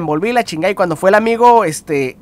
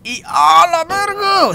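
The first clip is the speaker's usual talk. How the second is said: drawn-out exclamation; 10 semitones higher, much slower than usual. Real, not acted. Dramatic stretched exclamation.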